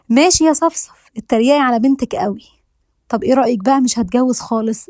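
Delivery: a daughter's half-joking huff at her mother; mock anger. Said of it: "بصت لأمها بغضب".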